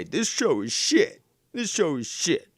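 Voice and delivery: hammed-up disgruntled viewer, loud and slow; mock complaint. Viewer complaining while watching the show, hammed-up outrage.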